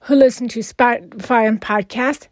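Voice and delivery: over-the-top French-sounding vampire; hammy Count Dracula accent, lightly done; bad vampire voice. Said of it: "my over-exaggerated, French-sounding, very bad vampire voice".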